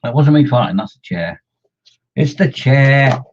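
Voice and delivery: hammed-up protest of innocence; mock protest. Denying to viewers the noise was a fart, mock indignant.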